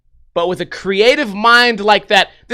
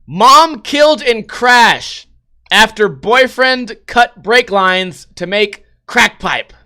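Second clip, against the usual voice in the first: dramatic headline read; 2 semitones higher, 4 dB louder, slower than usual. Acted. Reading headline dramatically aloud.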